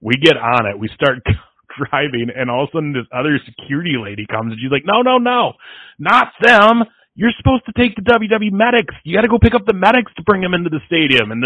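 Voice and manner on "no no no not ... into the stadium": high, insistent mock yelling; much higher voice, urgent objection; imitated scolding. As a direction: act out an official loudly stopping a driver. Acted security lady stopping the driver.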